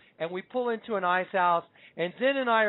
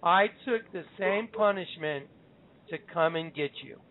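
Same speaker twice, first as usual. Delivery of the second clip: the Lord's words. Retold or imitated. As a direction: stretch it out, pausing before "to come and get you". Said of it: "then I heard him say".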